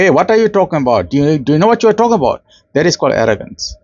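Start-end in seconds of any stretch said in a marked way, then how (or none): 0.0-2.4 fast, dismissive mock retort; rapid scoffing put-down, lightly acted; arrogant retort. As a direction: brush him off like you know better, quickly. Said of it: "in a very arrogant way".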